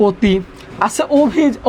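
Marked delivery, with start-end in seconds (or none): 0.1-0.3 অতি said "o-ti", with a closed o; first vowel as o. Shown as a demonstration. Teacher gives class the resulting pronunciation, first vowel as o. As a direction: open অতি on a rounded "o" sound. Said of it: "তাহলে উচ্চারণ হবে".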